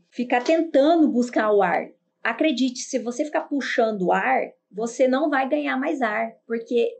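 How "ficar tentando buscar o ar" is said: showing wrong breathing. Shown as a demonstration. Teacher shows students the wrong way: gasping. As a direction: demo the panicky grab for breath. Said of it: "sem fazer assim, ó".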